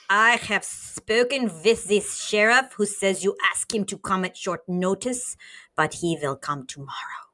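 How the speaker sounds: a lightly put-on German-ish villain accent; a mild comic-book villain voice, attempting German; superhero villain accent. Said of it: "Now I'm just doing superhero villain accent".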